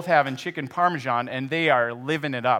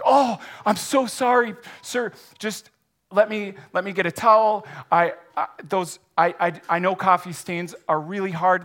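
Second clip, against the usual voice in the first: higher, louder, stammering panic; flustered apology; 4 semitones higher, 4 dB louder than usual. Acted. Clumsy waiter apologizing to the wet customer, flustered stammering. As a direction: babble apologies in a rush of nerves.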